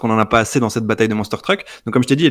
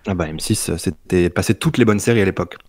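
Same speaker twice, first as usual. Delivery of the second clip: suave voice; 5 semitones lower than usual. Real, not acted. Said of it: "c'est très suave".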